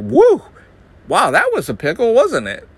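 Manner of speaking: very high, loud hooting mock cheer; hammed-up carefree Midwesterner; chipper coma survivor. Dan mocking an unfazed Midwesterner waking from a coma, high hooting voice. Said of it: "come out of the coma and be like".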